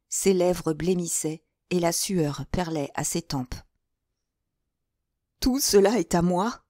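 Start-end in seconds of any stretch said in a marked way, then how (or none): 5.4-6.6 stupid laugh. Acted. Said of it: "avec un rire stupide".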